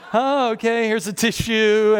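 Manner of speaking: high, uneasy acted reaction; mock-polite unease; awkward politeness. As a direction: play uncomfortable, strained helpfulness. Awkward reaction to someone ugly crying.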